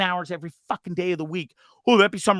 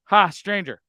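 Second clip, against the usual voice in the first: put-on a touch of drunk cockiness, a bit louder; mock casual greeting; 3 semitones higher, 5 dB louder, slower than usual. Reading his drunk reply to her text, mildly smug. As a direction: toss it off coolly. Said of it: "I was like".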